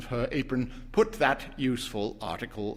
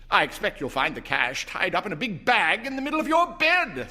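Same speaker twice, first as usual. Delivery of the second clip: put-on higher, joking young man; teasing son; 8 semitones higher than usual. A narrator's reading. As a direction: tease the old folks lightly. Herbert teasing parents.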